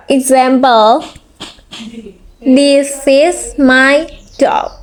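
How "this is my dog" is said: "This is my dog" slowly, pitch falling at the end; falling intonation. Shown as a demonstration. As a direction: let "dog" fall like a definite statement. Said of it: "One, falling intonation".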